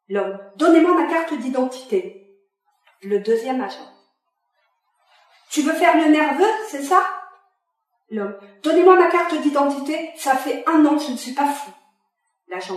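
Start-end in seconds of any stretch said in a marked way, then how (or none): 0.6-2.4 exige la carte, plus haut et plus fort; l'ordre d'un père à bout; exigence en colère. Acted. Father demands the card. 5.5-7.0 narguer plus haut et plus fort; provoque-le, moqueur et agressif; défi provocateur. Acted. Second agent provokes the father. 8.6-11.7 ordre crié qui retombe; exige, puis se reprend; colère. Acted. Father insists, furious.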